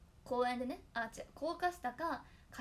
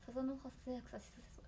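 elocution recital; 5 dB quieter than usual. Shown as a demonstration. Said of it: "あ、全然違う。".

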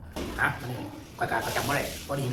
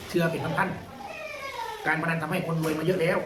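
mock commenter voice; much slower than usual. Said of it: "บ่ได้เสียงแบบนี้เด้ บ่ได้แบบตัวหนังสือ".

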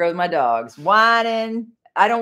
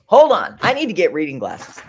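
1 loud call; 7 dB louder than usual. Real, not acted. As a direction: hold on called out loudly. Interrupting herself to the room.

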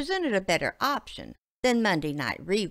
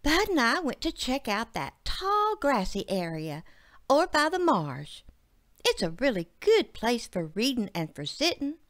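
panting; 6 semitones higher than usual. Acted.

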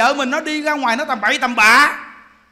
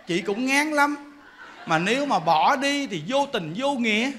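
mock grateful wife; 6 dB quieter than usual. Wife thanks the mistress.

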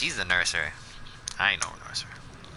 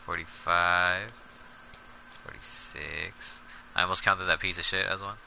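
counting softly under breath; quiet counting; 6 dB quieter than usual. Real, not acted. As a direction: mutter the count to yourself.

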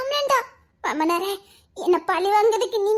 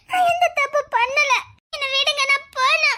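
tearful pleading; 3 semitones higher than usual. Acted. Arrested woman begging release.

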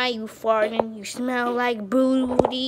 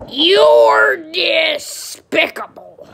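slow, loud cartoon duck outburst; Daffy-style shout; 3 semitones higher, 5 dB louder, slower than usual. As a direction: bellow it slowly like an outraged cartoon duck. Kid acting Looney Tunes duck line.

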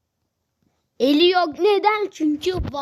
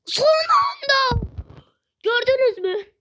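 slow relief; 8 semitones higher than usual. Real, not acted.

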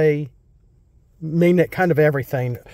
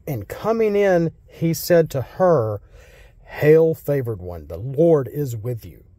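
scripture reading. Acted. Pastor reading Luke to church, measured reading voice. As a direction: read the passage to the congregation.

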